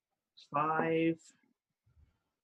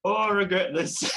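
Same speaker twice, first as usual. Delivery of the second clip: high, louder tiny clown voice; squeaky clown regret; 8 semitones higher, 4 dB louder than usual. Acted. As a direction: whine like a doomed little clown. Clown heads voiced, mock regret.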